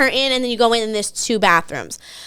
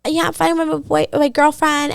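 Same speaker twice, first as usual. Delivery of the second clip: higher voice mimicking a woman; imitating her talk; 5 semitones higher than usual. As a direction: pitch it up as her quoted voice. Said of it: "she talks like this".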